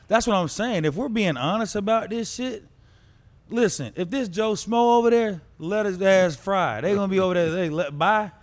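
fired up arguing; frat bro. Real, not acted. Heated debate about prisoner swap.

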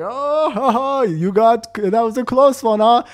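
high, jolly ho-ho imitation; mock laughing. VP and marketing manager react to the close one, mock laughing. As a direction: imitate bosses cracking up. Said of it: "They're laughing their asses off".

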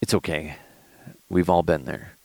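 low, gentle reassurance; supportive. Retold or imitated. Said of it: "all I did was give her support".

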